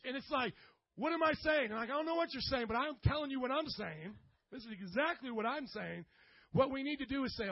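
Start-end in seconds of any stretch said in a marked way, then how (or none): 1.0-6.0 mock argument. Acted argument between spouses.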